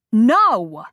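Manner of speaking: wife shouting her refusal at her ex; yelled no. Acted. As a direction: fling the refusal at him. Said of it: "she yelled at him".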